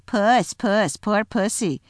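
mock cooing. A narrator's reading. Creatures jeering at the bound lion. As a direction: taunt him like a house cat. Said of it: "jeering at him".

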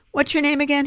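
high, bright question; curious question. A narrator's reading. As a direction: ask it with new interest. Free asks her name.

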